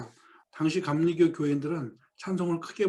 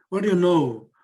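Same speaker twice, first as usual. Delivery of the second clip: 1 exclamation of surprise; 6 dB louder, much slower than usual. Acted. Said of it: "조지가 말하는 습관이에요".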